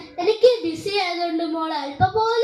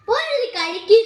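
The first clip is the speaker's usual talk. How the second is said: louder sharp repeat of പോയി ഇരുന്ന് കഴിക്ക്; irritated mother; 2 semitones higher, 5 dB louder, faster than usual. Acted. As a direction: lose patience on the second telling. Mother repeats, now angry. (ദേഷ്യത്തോടെ ഉറക്കെ)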